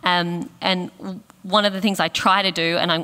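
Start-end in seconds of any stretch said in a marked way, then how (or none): 1.4-2.8 "try" said a touch louder, with emphasis; stress on try. Real, not acted. Admitting to an imperfect habit, emphasis on "try". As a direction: lean on the word "try". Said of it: "I'm emphasizing the word try".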